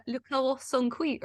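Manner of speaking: "Le carrots sont cuits" as a French practice phrase; French pronunciation. Shown as a demonstration. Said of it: "or whatever you do French".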